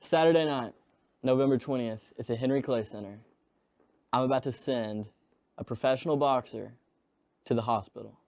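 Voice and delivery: measured promo with deliberate pauses; restrained wrestling promo, phrase by phrase. Shown as a demonstration. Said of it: "let me hear wrestling promo".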